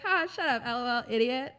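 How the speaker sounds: hammed-up laughing taunt; loud laughing jab. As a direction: shout the joke through laughter. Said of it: "I'm like".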